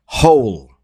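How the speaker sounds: whispered hole, no voice; whispering. Shown as a demonstration. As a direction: breathe the word hole. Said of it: "Repeat after me".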